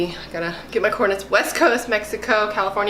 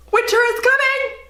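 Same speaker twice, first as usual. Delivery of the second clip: high, loud epic declaration; dramatic proclamation; 14 semitones higher, 4 dB louder than usual. Retold or imitated. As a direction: announce it like a herald. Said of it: "Game of Thrones quote".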